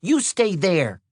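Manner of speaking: high, drawn-out yell without full volume; restrained yell, pitched well up; yelled command. A narrator's reading. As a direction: call out a slow, high order. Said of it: "she yelled".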